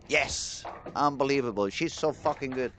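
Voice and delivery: bursting out with a cheer at the strike; excited cheer. Real, not acted. Commentator celebrating Nora's clutch strike, excited cheer. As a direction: cheer it like the winning shot just fell. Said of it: "but I get really excited".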